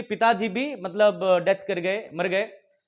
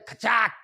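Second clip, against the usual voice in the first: imitated slam; 3 semitones higher, slower than usual. Imitates train door slamming on fingers.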